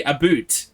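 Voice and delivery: "a boot" with an oo vowel, for about; mock Canadian vowel. Streamer teasing a Canadian viewer, "a boot" with exaggerated oo. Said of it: "Don't you also say".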